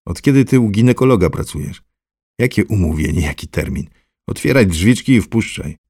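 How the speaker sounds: loud, rough man shouting through the gate; gruff gatekeeper. Acted. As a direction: bark at the visitor to open up. Character voice, gate guard.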